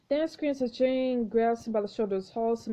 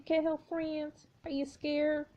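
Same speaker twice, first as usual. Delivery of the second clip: taunting ghost; 5 semitones higher, slower than usual. Acted. Jane taunting Lily.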